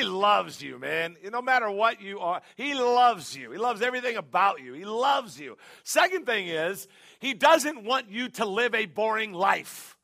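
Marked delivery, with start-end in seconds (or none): 4.7-5.6 ringing declaration; rising sermon shout; preaching shout. Real, not acted. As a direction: proclaim it to the room. Preaching emphasis.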